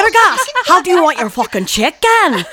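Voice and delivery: teasing question broken up by laughter; giggling at her own joke about the chicken; laughing. Real, not acted. Teasing friend over chicken joke.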